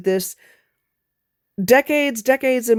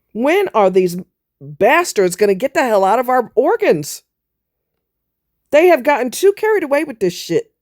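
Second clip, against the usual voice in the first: swearing tirade. Real, not acted. Angry rant, swearing.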